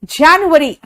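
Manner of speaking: जनवरी as English "JAN-yu-uh-ree"; English month name जनवरी, open first vowel; English pronunciation. Shown as a demonstration. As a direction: model जनवरी in careful English syllables. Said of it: "बोलो मेरे साथ".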